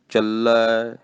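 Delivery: ਚੱਲੈ with a held doubled l, ending in ai; ਚੱਲੈ, not ਚੱਲੇ, doubled l sound. Shown as a demonstration. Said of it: "ਚੱਲੇ ਨਹੀਂ ਕਹਿ ਦੇਣਾ".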